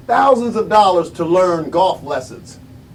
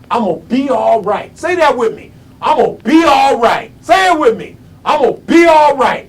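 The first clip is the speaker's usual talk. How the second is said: rallying cry; 3 dB louder than usual. Real, not acted. Rallying audience to repeat after him.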